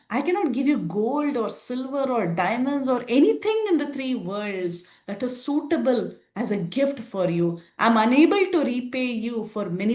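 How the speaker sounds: a hint of Sita overwhelmed with thanks; Sita grateful.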